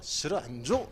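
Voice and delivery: mock defiant back-and-forth; defiant refusal. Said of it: "개긴다". (개기듯 당당하게 거부하는 연기)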